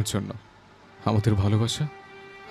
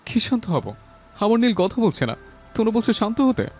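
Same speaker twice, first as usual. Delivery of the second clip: distraught protest; 5 dB louder than usual. Acted. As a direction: throw the plea for calm back in grief, ending loud. Bereaved son refuses to calm down. (শোকে আকুল তীব্র প্রতিবাদ)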